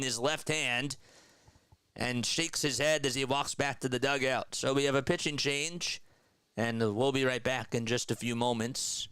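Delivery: lively baseball play-by-play call. Acted. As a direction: call the action like a broadcaster. Streamer calls the game.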